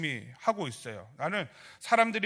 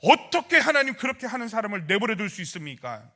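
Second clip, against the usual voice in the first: raised, louder protest to God; mock indignant plea, high and forceful; indignant prayer; 4 semitones higher, 5 dB louder than usual. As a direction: act out an aggrieved appeal.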